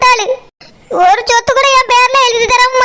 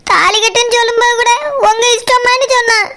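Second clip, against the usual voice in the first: talking through tears; a sob catching in the telling; crying. Acted. Mother telling her husband of the betrayal, tearful. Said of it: "எதுக்கு சரோஜா இப்படி அழுதுட்டு இருக்கா".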